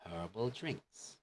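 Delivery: "Herbal" with a clearly breathed H at the start; H pronounced. Shown as a demonstration. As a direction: sound the H in "Herbal". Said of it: "I want to hear the H".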